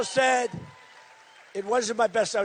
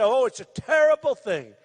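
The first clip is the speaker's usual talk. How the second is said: mock hand-wringing; 2 semitones lower than usual. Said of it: "They think I'm gonna say".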